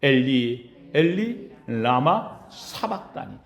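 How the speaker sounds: low, slow, grieving cry of the cross; anguished cry, low. Retold or imitated. Pastor voicing Jesus's cry on the cross, low and anguished. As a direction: draw it out low and heavy. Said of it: "가장 처절하게 외쳤던 말씀".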